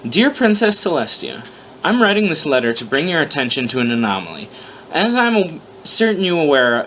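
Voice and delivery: lightly voiced Twilight's letter; a hint of eager student writing; letter read aloud. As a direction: read the letter as the studious pony. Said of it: "she began to write".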